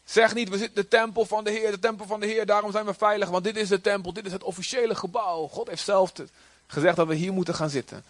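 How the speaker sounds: a hint of Jeremiah pleading; lightly voiced prophet. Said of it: "Dat zei Jeremia". (licht gespeelde profeet)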